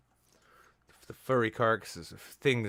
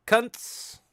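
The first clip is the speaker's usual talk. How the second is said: mock shout; 11 semitones higher, 5 dB louder than usual. Sign held at protest, shouted.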